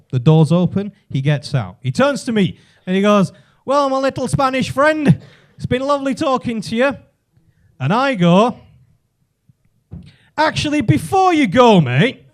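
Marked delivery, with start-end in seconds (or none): 3.6-7.0 higher, condescending farewell; patronising goodbye. Retold or imitated. Man leaving lift to his Spanish friend, patronising higher farewell. 10.4-12.2 higher Yorkshire reveal, dropping on "mate"; Yorkshire accent. Acted. Supposed Spaniard stops man leaving, Yorkshire accent. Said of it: "Why is this Yorkshire accent coming out".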